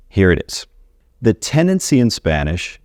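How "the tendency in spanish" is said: tendency lifted high and leaned on; stress on tendency. Shown as a demonstration. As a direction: hit the word tendency. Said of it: "I'm stressing the word tendency here".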